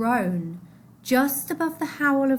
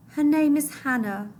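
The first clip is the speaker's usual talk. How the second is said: mother struggling to be heard; 5 semitones higher than usual. Acted. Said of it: "she said".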